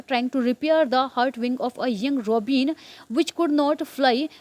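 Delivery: carefully paced reading aloud for learners; slow story reading. Acted. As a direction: read each English word very slowly and evenly. Slow English reading before translating. (धीमा, साफ़ कहानी-पाठ)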